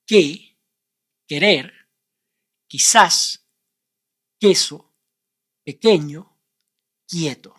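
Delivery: guerra to quieto, u never sounded; Spanish words. Shown as a demonstration. Teacher running through silent u examples. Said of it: "the way you do it".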